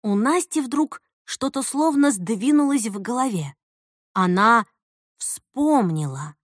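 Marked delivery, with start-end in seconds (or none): none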